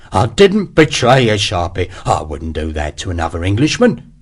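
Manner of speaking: pleading denial. Acted. Hexwell pleads, voiced figure.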